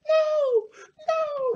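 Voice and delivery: put-on very high, loud frightened child's "no"; terrified child screaming. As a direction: shriek it like a scared little kid. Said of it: "I'm screaming".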